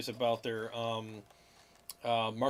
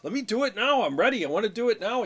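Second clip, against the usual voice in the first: higher, louder impatient singer; retold fury; 8 semitones higher, 6 dB louder, faster than usual. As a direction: imitate a singer demanding his turn. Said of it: "Bruce was like getting furious".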